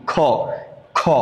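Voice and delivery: "খ" said softly, a light aspirated k; soft kha. Shown as a demonstration. Teacher demonstrating a soft "খ" for letter Q. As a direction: ease the air out on a gentle "খ". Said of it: "sound softly".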